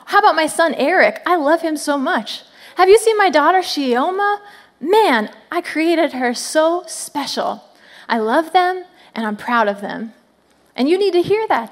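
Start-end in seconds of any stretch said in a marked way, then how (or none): 0.1-10.1 a light voicing of a bragging proud dad; lightly voiced proud parent; proud father God. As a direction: boast about your kids to a friend. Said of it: "He's like".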